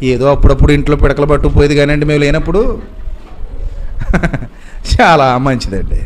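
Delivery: sarcastic gossipy mourners; mock funeral eulogy. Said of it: "వచ్చేమంటారు తెలుసా".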